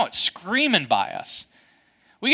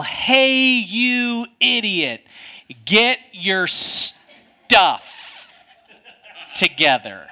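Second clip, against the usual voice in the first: booming yell; 3 semitones higher, much slower than usual. Retold or imitated. Golfer yells at the man who nearly hit him, booming angry yell. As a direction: bellow it very slowly, stretching each word. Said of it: "a loud, booming voice".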